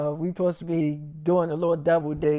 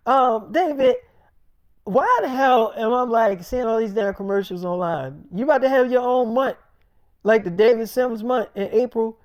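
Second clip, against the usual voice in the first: higher and louder, pushing at him; teasing co-star; 4 semitones higher, 4 dB louder than usual. Retold or imitated. Co-star grilling David about his ads, high and loud. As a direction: needle him, pitched up and loud.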